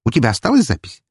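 high-pitched eager request; hopeful, excited plea in a high voice. Acted. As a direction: ask eagerly, voice lifted. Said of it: "с надеждой спросила Фокси".

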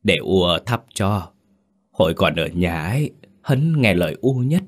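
put-on lightly hoarse old mother; a touch of hoarseness, worn by crying. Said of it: "giọng khàn khàn".

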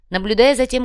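ordinary delivery

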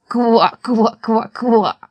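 insistent frog croaks; stubborn chorus of croaks; croaking frogs. A narrator's reading. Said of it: "лягушки продолжали кричать ему вслед".

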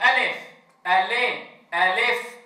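ألف said with a clear a, ألي with the vowel leaning to e; teacher demo of letter names; wrong and right letter names. Shown as a demonstration. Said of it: "بعض المعلمين لما بيعلم حرف الألف ماذا يقول".

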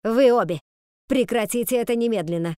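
loud angry order with a shout on Вы обе; furious shout. A narrator's reading. Fox yelling at both women to stop, loud. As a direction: bellow them into silence.

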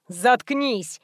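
usual speaking voice

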